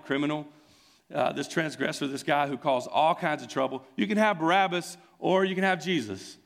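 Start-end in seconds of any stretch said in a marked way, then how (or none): 3.9-6.4 excited bargaining. Acted. Pilate offers the choice.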